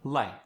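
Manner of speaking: "light" with a short, flat vowel; South African light. Shown as a demonstration. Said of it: "It's feel, light".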